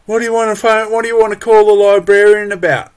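hammed-up nosy clerk; mock council staffer. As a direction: parody the clerk's nosy question. Mimicking council gatekeeper again.

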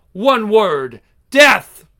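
defiant battle shout; a high, loud war cry. Acted.

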